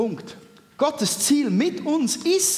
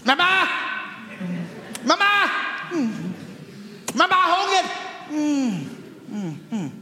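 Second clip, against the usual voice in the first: mechanical crying doll; 8 semitones higher than usual. Pretend. Preacher mimics a child's cry.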